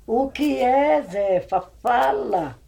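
loud and pressing, high; aunt loudly urging the crying neighbour to speak; urgent demand. Retold or imitated. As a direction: push her to get the words out. Aunt urges frightened woman to speak.

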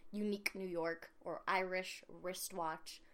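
slow, careful tongue twister. Shown as a demonstration. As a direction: say each word of "Unique New York or Irish wristwatch" slowly. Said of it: "spurt out".

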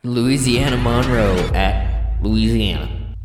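Louisiana drawled slow with a mumbled, marble-mouthed vowel. Real, not acted. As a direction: say Louisiana slowly, as if marbles fill your mouth. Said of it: "you kinda put some marbles in your mouth".

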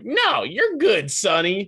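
put-on high, loud, slow old-timer voice; kindly old guy at the grocery store; mock kindly old man. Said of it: "the best thing in their life to do is like".

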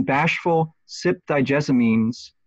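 slow, measured reading of the verse; deliberate scansion of the line; counting out syllables. Shown as a demonstration. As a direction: read "bashful sip thy jessamines" slowly, testing the meter. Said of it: "I'm counting six or seven".

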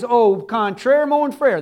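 hammed-up French phrase, drawn out slowly; a playful stab at a French accent; God answering in mock French. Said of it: "That's my French".

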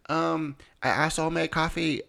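put-on high-pitched mother-in-law with an Asian accent; imitated Asian accent. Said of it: "that's my best Asian accent".

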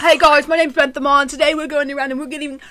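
mock YouTuber intro, building in volume; Bentham. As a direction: put on a YouTuber's giveaway-video voice. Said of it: "your voice for Bentham".

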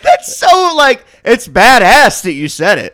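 high, loud, laughing praise; cracking up, thoroughly impressed; laughing admiration. Real, not acted. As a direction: shout it through amazed laughter.

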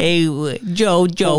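high lisping boxer voice; Mike Tyson impression. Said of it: "why are you talking like Mike".

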